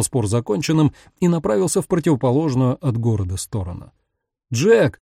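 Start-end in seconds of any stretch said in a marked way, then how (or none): 4.5-5.0 calling out. Acted. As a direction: call his name to stop him. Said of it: "окликнул его Тони". (окликнуть издалека)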